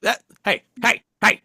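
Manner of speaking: high, laughing hey hey; laughing protest. Real, not acted. Protesting the host's eye roll with laughing heys. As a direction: fend off teasing with laughter.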